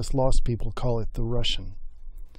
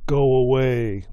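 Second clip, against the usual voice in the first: lightly growled dismissal; a touch of grumpy bear; growling bear; slower than usual. A narrator's reading. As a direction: send them off with a storybook growl. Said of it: "growled Bear".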